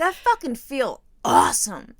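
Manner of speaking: slow, loud mock exuberance; hammed-up blissful declaration; stoned elation. Retelling own stoned elation.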